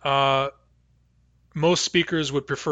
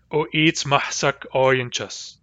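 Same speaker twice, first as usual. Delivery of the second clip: slow demo pronunciation; slower than usual. Shown as a demonstration.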